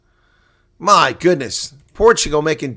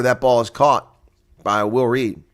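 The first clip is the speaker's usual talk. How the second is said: ordinary delivery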